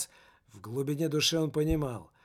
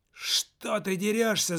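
slow, higher indignant yell, lightly done; mock angry cry; 5 semitones higher, slower than usual. The teenager yells at the soul after being hit. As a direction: protest the blow, pitched up. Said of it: "закричал он на душу".

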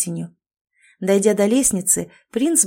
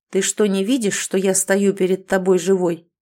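icy cold. Acted. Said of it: "с металлическим холодом в голосе".

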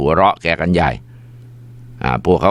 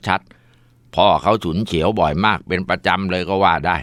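ordinary delivery

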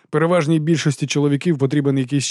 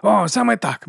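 fake enthusiasm; 8 semitones higher, slower than usual. A narrator's reading. Morvir joins the cheering.

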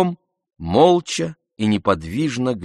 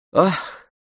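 a drawn-out high "ah" full of grief and gladness; long sigh of sorrow and joy; 8 semitones higher than usual. A narrator's reading. Oblomov answers Andrei with a long, aching "ah". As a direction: let years of longing out in one long "ah". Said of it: "произнёс он в ответ продолжительно".

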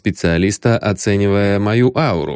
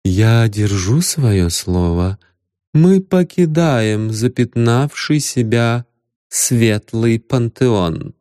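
goddess voice; slower than usual. Acted. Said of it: "бархатный голос богини".

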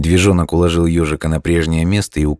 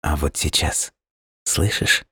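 soft expectant whisper; whisper, waiting for the song; hushed; 6 dB quieter than usual. A narrator's reading. Hedgehog conjuring imagined song.

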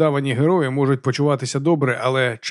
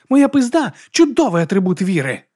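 loud, higher bark; 8 semitones higher, 5 dB louder than usual. Acted. Vigga barks back at the baron, loud and high. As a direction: bark it proudly. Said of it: "гаркнула Віга".

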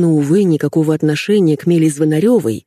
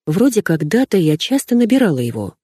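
usual speaking voice

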